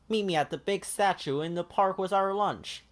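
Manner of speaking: high, bright puppet-like Ernie; eager Ernie calling his friend. Acted. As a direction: lift into a cheerful high Ernie. Ernie's voice in story.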